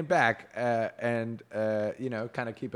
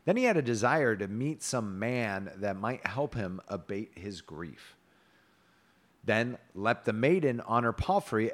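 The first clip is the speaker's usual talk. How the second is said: measured storybook reading; story narration. A narrator's reading. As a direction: read the tale aloud with old-fashioned cadence.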